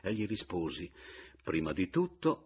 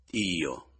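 exclaiming; 4 dB louder than usual. Acted.

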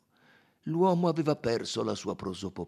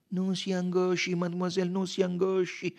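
higher, gentle detective voice; soothing consolation; 8 semitones higher than usual. A narrator's reading. Detective consoling a weeping woman, soothing. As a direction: comfort with evenly repeated reassurance.

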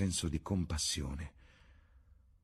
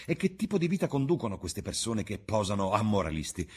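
put-on raised, scornful young man's voice; defiant Dorian; 5 semitones higher, 5 dB louder than usual. Dorian scoffing at Basil's worries, raised and scornful. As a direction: brush off the accusation with loud disdain.

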